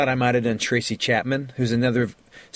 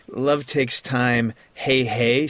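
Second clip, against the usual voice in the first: sneering; much slower than usual. Retold or imitated. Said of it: "that kind of sneering".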